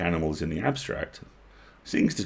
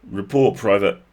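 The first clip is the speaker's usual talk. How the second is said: snapped order; 8 dB louder than usual. A narrator's reading. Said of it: "snapped Nasilka".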